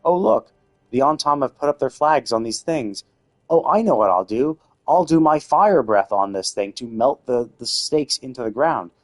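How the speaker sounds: emphatic, sarcastic play-acting; mock eagerness. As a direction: act out a foolish bright idea with sarcastic gusto. Mockingly acts out character's silly plan.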